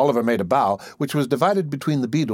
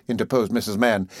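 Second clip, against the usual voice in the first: ordinary delivery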